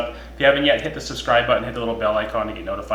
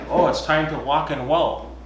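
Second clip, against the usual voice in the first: punny mock voice; 6 semitones higher, slower than usual. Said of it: "We could be punny and be like".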